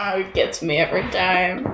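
giggling through the words; can't hold the laugh in. Real, not acted. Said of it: "biting my tongue, trying not to laugh".

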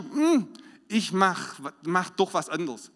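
slow, hesitant musing, lightly voiced; drawn-out wavering thought; inner voice. Believer doubting the Spirit's nudge, slow hesitant mutter. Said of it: "dann sagst du".

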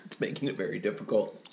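mouth full of chocolate. Real, not acted. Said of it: "so much chocolate in my mouth".

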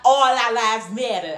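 put-on drawn-out DMV accent. Woman mimicking a DMV boy's talk, DMV accent.

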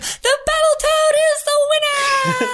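very high, loud announcer cry; ring announcer. Acted. The ring announcer calling the Battletoad the winner, crying out.

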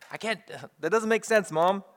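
a mildly exasperated son or daughter to Mom; child answering back. Acted.

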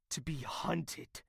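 slow soft whisper. Acted. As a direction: let it drop to a whisper. Dark confession.

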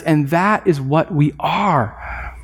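slow, emphatic declaration. Retold or imitated. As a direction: draw out "And that is what we are" with deliberate weight. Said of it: "John emphatically says".

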